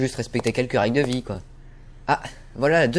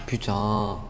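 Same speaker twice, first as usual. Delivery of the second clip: muttered curse; 6 semitones lower, 7 dB quieter than usual. Acted. Curses while reading the rules.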